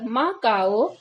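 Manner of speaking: put-on "काओ" with a plain k in place of kh, like a toddler; baby-talk lisp. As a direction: lightly mimic a child saying "माँ काओ". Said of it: "बच्चे कैसे तोतली भाषा बोलते हैं ना". ("काओ" को तोतली आवाज़ में हल्के से बोलें)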